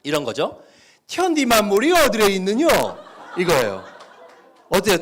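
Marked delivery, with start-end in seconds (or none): 1.1-2.7 loud North Korean dialect reading. Shown as a demonstration. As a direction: read it with a North Korean lilt. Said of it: "북한 사투리를 쓴다고 생각하고 읽으시면".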